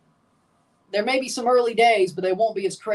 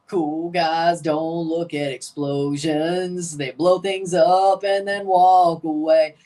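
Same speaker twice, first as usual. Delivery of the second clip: slow cool-guy delivery; 4 dB louder, much slower than usual. Acted. Quoting a cool-guy line.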